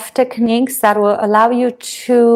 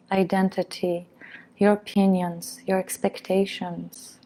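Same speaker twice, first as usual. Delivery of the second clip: unhurried guiding voice, easing quieter as it goes; guided meditation; 4 dB quieter than usual. Real, not acted. Meditation teacher has listeners set burdens in a basket, gentle guided meditation. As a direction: softly guide them into letting go.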